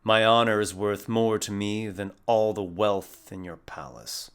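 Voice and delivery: lightly voiced proud refusal, measured; in-character defiance. Player character refusing the Wood Elf King, solemn defiance. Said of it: "you instead say".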